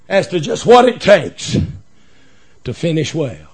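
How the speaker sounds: low, softened pulpit voice; hushed and earnest, sinking at phrase ends; quiet, solemn preaching. Real, not acted. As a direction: speak gravely, pausing between phrases.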